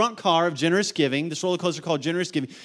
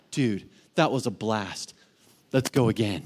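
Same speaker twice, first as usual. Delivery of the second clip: laughing; 9 semitones lower than usual. Retold or imitated. Rider after the coaster.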